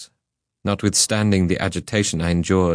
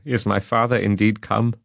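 joyful eagerness; 4 semitones higher than usual. A narrator's reading. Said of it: "relaxed from anguish to pleasure".

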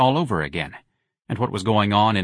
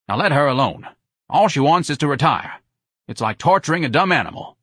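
higher-pitched, indignant wife; protective wife; 6 semitones higher, 4 dB louder than usual. A narrator's reading. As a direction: scold him on the old woman's behalf. Wife protects Miss Trixie.

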